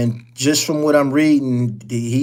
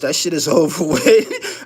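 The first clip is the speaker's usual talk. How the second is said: laughing. Real, not acted. Laughing off rival podcast.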